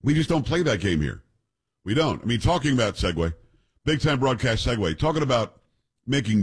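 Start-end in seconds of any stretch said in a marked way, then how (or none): none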